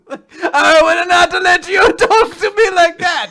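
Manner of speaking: high, loud indignant fake accent; mock Italian accent. Defending the accent to co-host, indignant mock Italian. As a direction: protest in a hammed-up Italian accent. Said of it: "See if you still have your accent".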